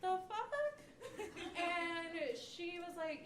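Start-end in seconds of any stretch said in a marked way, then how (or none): 0.0-0.5 high, slow stunned outburst; shocked disbelief. Retold or imitated. Comic telling her sister, shocked disbelief. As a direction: blurt it out in disbelief.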